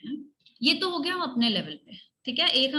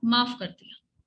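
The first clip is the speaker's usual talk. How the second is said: forgiving demo; 3 semitones lower, slower than usual. Shown as a demonstration. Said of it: "ऐसे करो".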